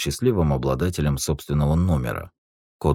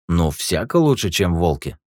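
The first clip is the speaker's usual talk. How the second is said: taxi driver; 3 semitones higher, 5 dB louder than usual. Acted.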